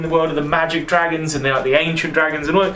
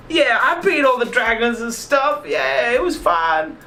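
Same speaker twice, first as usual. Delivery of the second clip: imitating Spyro; 6 semitones higher than usual. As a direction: mimic the hero's bored cartoon voice. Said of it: "he does it in exactly that accent".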